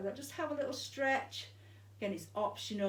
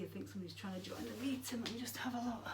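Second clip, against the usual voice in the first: whispered aside; 7 dB quieter, faster than usual. Real, not acted. Aside checking a notification.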